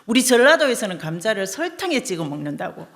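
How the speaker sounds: loud, offended retort; wife snapping back at the husband, hurt and loud; hurt, upset wife. Retold or imitated. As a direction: fire back, stung by the insult. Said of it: "너무 심장이 상한 거예요".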